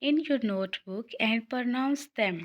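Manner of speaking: slow, spaced English instruction; slow read-out of the task. Shown as a demonstration. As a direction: read the task aloud slowly. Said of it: "उन्होंने आपके लिए एक activity दी है". (धीमे पढ़कर सुनाना)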